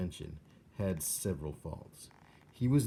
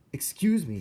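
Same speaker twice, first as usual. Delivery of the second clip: small mouse calling up; 9 semitones higher, 8 dB louder than usual. A narrator's reading. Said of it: "and so he tried again".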